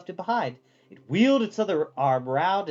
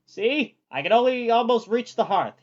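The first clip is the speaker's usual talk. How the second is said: higher, louder proud little boast; proudly; 7 semitones higher, 6 dB louder than usual. A narrator's reading. Calcifer proudly showing Sophie his flame arm, proud. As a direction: show it off proudly. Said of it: "he said proudly".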